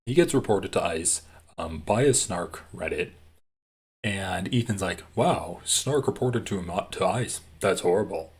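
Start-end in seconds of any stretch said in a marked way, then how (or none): 5.2-8.3 facetious. Retold or imitated. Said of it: "Like, super facetiously".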